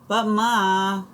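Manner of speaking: put-on high, whiny kid's protest; childish whine at his mother; whining boy. A narrator's reading. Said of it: "Kermit whines".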